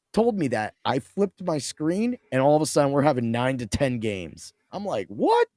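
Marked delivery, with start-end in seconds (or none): 5.1-5.5 high, hammed-up disbelief; playful shocked outburst, pitched up; mock amazement. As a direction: act stunned at the high score. Retold joke of amazement.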